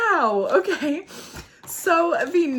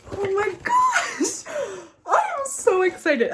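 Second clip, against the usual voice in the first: high, stretched-out gush; overwhelmed excitement; 7 semitones higher than usual. Real, not acted. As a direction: gush in high-pitched amazement.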